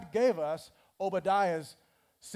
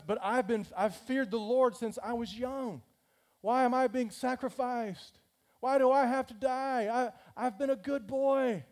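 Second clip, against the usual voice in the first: put-on high, pleading little-boy whine; whiny Obadiah; 5 semitones higher than usual. Obadiah whines to Elijah that he has been good, high and pleading. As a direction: plead like a scolded child.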